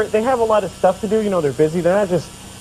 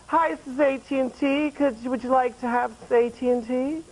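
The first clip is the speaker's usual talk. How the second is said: higher-pitched mock phone-sales pitch; telemarketer; 7 semitones higher, 6 dB quieter than usual. Phone company calling every day, mock telemarketer voice. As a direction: pitch it up like a scripted caller. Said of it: "And they're like".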